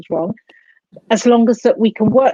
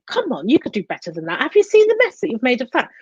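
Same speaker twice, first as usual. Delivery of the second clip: mock parental scolding; scolding inner voice; 3 semitones higher, faster than usual. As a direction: tell yourself off like a cross parent. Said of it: "this voice is saying".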